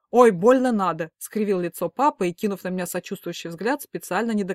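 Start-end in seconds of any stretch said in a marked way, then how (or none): 0.1-1.1 loud, slow scornful brush-off; dismissive huff. A narrator's reading. Father leaving the room, scornful brush-off. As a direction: wave it off grumpily.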